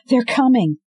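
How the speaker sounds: high, loud alarm; warning of approaching wolves; panicked warning. Acted. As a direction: shout the danger.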